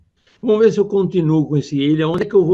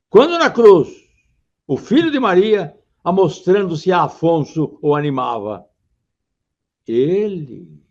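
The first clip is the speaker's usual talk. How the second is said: poem recitation; 2 semitones higher than usual. Shown as a demonstration. Teacher recites Camões verse to students, declaiming. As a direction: recite Camões with solemn weight. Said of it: "Olha o texto".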